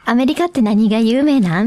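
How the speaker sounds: casual Kobe-dialect translation. Shown as a demonstration. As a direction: put the question in Kobe dialect. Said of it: "私の神戸弁では".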